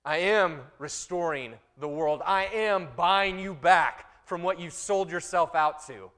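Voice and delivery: loud, slow, proclaiming as God; a hint of God's voice, loud and slow. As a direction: speak as God restoring the world.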